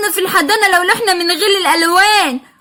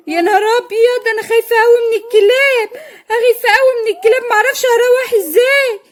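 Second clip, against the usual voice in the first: higher, whimpering fearful voice; frightened of dogs; 4 semitones higher than usual. Acted. Vendor woman suddenly scared of the barking dogs, higher whimpering fear. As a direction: panic about the dogs.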